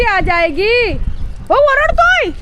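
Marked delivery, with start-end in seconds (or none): 1.5-2.3 very high excited call; egging on the dog. Real, not acted. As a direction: pitch it way up for the dog.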